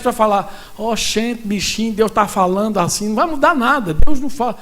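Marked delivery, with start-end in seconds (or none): 0.8-3.1 lightly put-on Northeastern Brazilian accent; playful imitation of a Northeastern Brazilian accent. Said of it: "Se você for do Nordeste".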